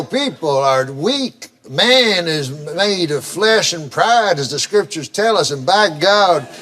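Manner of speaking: mock-solemn, drawn-out sermonizing; slow down as if quoting scripture; slow, solemn moralizing. Mock scripture aside in joke.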